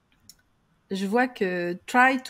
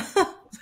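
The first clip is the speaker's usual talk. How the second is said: short laugh. Real, not acted. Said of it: "ah, ah, tu rigolais".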